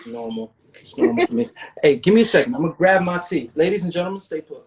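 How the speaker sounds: put-on British accent, playful; hammed-up British host manner; mock British accent. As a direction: keep up the pretend British accent. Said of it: "Santos is British".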